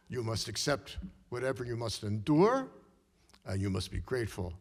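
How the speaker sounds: put-on firm Hungarian-accented advice; an old mentor insisting, Hungarian accent. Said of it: "in her Hungarian accent".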